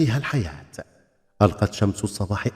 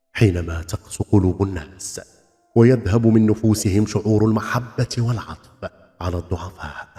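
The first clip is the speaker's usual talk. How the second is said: deep piercing voice. Acted. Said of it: "في صوت عميق نافذ". (صوت عميق نافذ بنبرة مهيبة)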